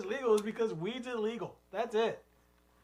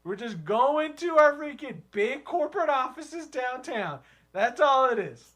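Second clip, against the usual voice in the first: conservative city hipster; 4 semitones higher than usual. Pretend. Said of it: "type of guy like that".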